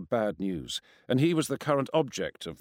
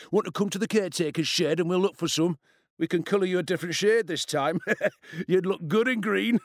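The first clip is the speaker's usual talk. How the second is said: high, mocking bully voice breaking into laughter; taunt, then start to laugh; 8 semitones higher, 3 dB louder than usual. A narrator's reading. Bully threatens boy with green paint, laughing. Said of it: "He laughed".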